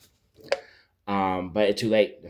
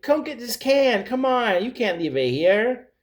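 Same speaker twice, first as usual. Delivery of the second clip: much higher cartoon voice calling out; hammerhead shark voice; 14 semitones higher, 3 dB louder than usual. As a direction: call out high like a cartoon shark. Hammerhead nags Deep about can.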